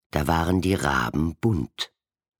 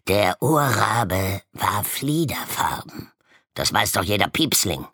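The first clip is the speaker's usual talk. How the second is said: higher, louder indignant lecturing; indignant raven; 5 semitones higher, 3 dB louder than usual. A narrator's reading. Violet raven insisting indignantly, higher and louder. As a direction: insist everyone knows it. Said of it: "rief ein Violetter empört".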